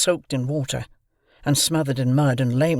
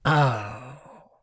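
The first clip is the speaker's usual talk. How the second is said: gruff convict. A narrator's reading. Convict reacts.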